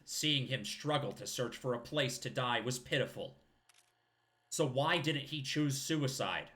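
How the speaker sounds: put-on eulogize like an old warrior; old man voice. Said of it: "Doing that old man voice".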